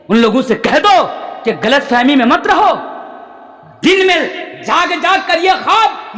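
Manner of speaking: forceful sermon delivery with surging emphasis; fiery preaching. Real, not acted. Preacher telling Muslims to hold to their faith, fiery preaching. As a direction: drive each point home to a congregation.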